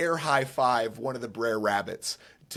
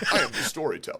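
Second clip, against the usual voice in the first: storyteller voice; 2 semitones lower, much faster than usual. Pretend. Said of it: "can you do it one more time".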